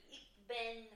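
"Ich bin" said the German way, ikh bin; German phrase. Retold or imitated. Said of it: "like in German".

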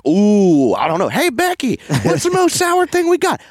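squeaky shop lady, high and loud; high clerk voice. Retold or imitated. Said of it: "they're like".

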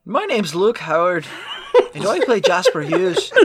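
put-on Irish accent. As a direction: fake Irish self-introduction. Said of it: "With that accent".

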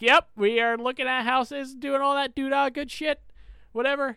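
a mild sarcastic lilt, playing along. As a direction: toss off the fake story like it's nothing. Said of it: "I was like".

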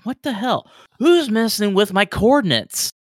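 high, indignant outburst; angry male crewman. Acted. Crewman protesting to the bridge, angry and high. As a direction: demand who touched his coordinates.

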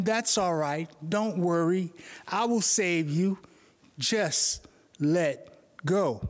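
slow, gentle "Just let go"; a hint of a tender, calm God; calm reassuring God. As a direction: soothe him, then ease out the last words.

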